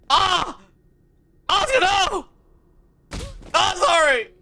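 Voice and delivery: half-joking loud apology to Asuka; loud pleading apology. Real, not acted. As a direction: beg her forgiveness over the game. Apologizing to the game character.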